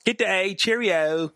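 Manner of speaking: playful fake British accent; mock British accent. Mimicking how the book's characters talk, mock British accent. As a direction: put on a joke British accent. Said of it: "read in that accent".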